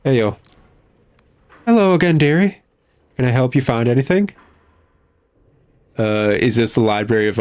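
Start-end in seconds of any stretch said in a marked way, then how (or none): 1.6-4.3 lightly voiced kindly old librarian, a bit higher; sweet old librarian greeting a visitor; a hint of a fussy old librarian; prim old librarian.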